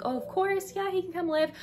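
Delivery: high-pitched, over-eager agreement; put-on enthusiasm. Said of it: "She's very enthusiastic, like, in person".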